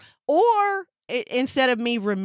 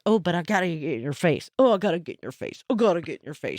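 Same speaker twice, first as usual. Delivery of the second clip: voicing the cat; 6 semitones lower, faster than usual. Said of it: "but then she like".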